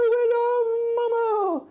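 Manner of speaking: very high, slow, loud pet talk. Real, not acted. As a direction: coo it out, stretched and squeaky. Doting on pet Momo.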